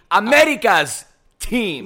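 accented "America's", tapping the R; put-on accent. Shown as a demonstration. Co-host emphasizing the accent for the show title, tapped-R accent. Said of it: "emphasize on the accent".

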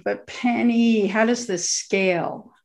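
slow, drawn-out plaintive appeal; retold moan, drawn out slowly; mild mock moan. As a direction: lightly moan it, stretching the words. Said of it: "I moaned".

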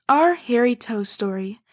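slow, lightly mock audiobook intro; a hint of a grand audiobook voice; audiobook announcer. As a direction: announce the title like a narrator. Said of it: "I need to do an audiobook thing".

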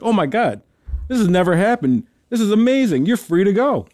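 mildly amazed, pitch climbing on the reprieve; lightly voiced astonishment; amazed warden. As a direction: act out a warden marvelling at a miracle. Joke's warden amazed at failed execution.

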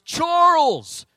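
loud, high call across the street; yelling a name. Retold or imitated. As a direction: call out to him from behind. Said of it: "Mark just walks and goes".

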